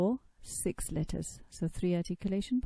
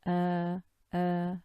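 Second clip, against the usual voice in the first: throat glottal demo. Shown as a demonstration. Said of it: "feel a vibration".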